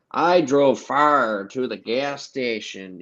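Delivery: slow, exaggerated mock Southern accent; fake Southern accent. Shown as a demonstration. Showing how Southerners don't talk, mock Southern accent. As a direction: stretch the words into a phony Southern drawl. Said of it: "people in the South don't say".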